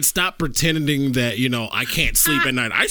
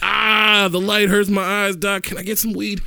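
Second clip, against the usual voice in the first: fake migraine patient; 5 semitones higher than usual. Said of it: "pretend like I get migraines".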